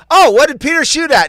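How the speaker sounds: lightly voiced child; kid voice. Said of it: "and then I'd go".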